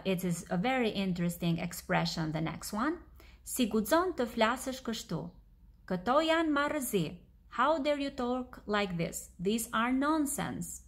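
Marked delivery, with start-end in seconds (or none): 3.4-10.8 mildly indignant, raised pitch; indignant queen. Acted. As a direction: lightly act an offended queen. Queen's indignant reply in the story.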